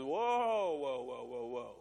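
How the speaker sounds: alarmed whoa. Acted. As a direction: pull up short, backing away in alarm. Moses balks at God's order.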